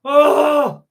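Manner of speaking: voicing the dog's self-pity, high and whiny; mock pitiful dog. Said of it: "he says".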